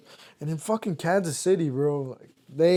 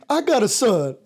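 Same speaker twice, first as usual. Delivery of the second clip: imitating Michael Irvin; 5 semitones higher than usual. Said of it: "He's like".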